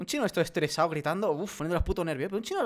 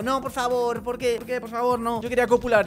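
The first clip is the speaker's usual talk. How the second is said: higher-pitched, hammed-up begging; mock pleading; 4 semitones higher than usual. Gamer begs not to fight again, mock pleading. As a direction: plead as if it's all too much.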